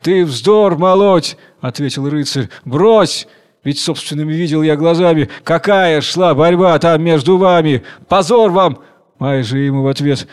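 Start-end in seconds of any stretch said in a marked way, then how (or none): 0.0-1.4 higher, louder and slow; indignant slow outburst; angry rebuke. Acted. Husband rebukes wife. 2.6-8.8 angry rebuke. Acted. Husband rebukes wife.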